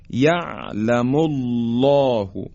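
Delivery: یعلم الله with thick dark lam after "mu", long rounded vowel; slow recited یعلم الله, full backed الله; heavy taghliz. Shown as a demonstration. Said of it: "حالا این درشتی رو دقت کنید".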